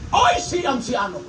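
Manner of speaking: mocking young woman. Young woman texting, mimicked.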